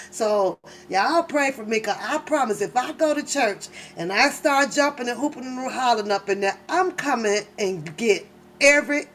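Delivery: normal talking voice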